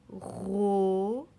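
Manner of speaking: "Robin" with a long ro, a pause, then bin; "Robin" pulled apart syllable by syllable; split into syllables. Shown as a demonstration. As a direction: sound out "Robin", holding the first syllable. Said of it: "je l'entends au début du mot".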